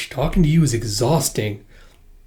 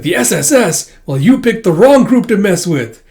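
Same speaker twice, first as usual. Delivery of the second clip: higher, louder smug challenge; cocky taunt; 7 semitones higher, 7 dB louder than usual. Acted. Hero taunts the gang before the fight. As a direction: gloat at the thugs.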